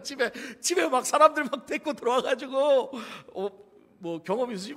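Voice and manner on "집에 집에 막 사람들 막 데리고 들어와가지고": ordinary talk, nothing marked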